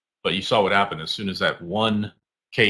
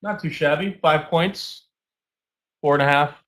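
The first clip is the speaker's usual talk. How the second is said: pleased; 7 semitones higher, 5 dB louder than usual. Real, not acted. Pleased with five points.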